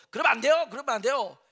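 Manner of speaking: loud, high pleading protest, fading on the repeat; Peter protesting. Retold or imitated. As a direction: hold him back, insisting loudly, then ease off. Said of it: "이렇게 하는 겁니다". (예수를 붙들고 크고 높게 항변하다가 누그러지는 목소리)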